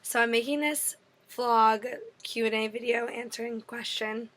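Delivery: losing her voice, raspy and strained; hoarse voice. Real, not acted. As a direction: talk through a sore, worn-out throat. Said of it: "Sorry, my voice is gone from this past week".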